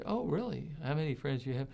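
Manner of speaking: softly acted skeptical reply, lifted "Oh, really?"; quiet mock interest. Replying to someone boasting of many friends, quiet mock interest.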